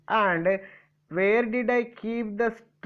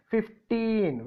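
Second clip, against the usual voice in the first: "Fifteen" with the last syllable pitched higher; stress on TEEN; 4 semitones higher than usual. Shown as a demonstration. Teacher showing where stress falls in "Fifteen", last syllable stressed. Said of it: "where did I keep the stress".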